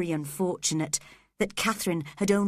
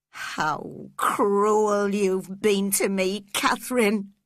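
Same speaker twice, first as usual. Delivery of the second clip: slow, louder anguished cry; cry wildly; 2 semitones higher, 4 dB louder, slower than usual. Acted. Heathcliff reproaching dying Catherine, crying out wildly. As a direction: wrench it out in reproach. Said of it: "he cried wildly".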